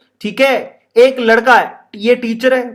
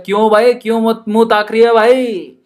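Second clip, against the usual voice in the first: Haryanvi Rajasthani speech; 2 semitones higher than usual. Shown as a demonstration. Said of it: "Rajasthan में ऐसे बोलते हैं".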